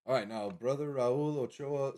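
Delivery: names read slowly with a light Spanish accent, Raul Ochoa rolled out; tentative Spanish accent. Shown as a demonstration. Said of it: "which ones are to say in Spanish accent or English".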